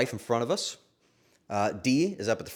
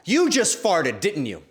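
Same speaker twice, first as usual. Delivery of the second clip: higher, louder accusing "You just farted"; loud accusation; 4 semitones higher, 6 dB louder, slower than usual. Retold or imitated. Friend accusing her loudly in the Uber, mock loud. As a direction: call her out in front of everyone. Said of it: "she says very loudly".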